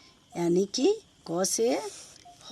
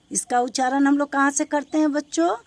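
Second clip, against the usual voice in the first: quizzing the class; 5 semitones higher, 4 dB louder, faster than usual. Acted.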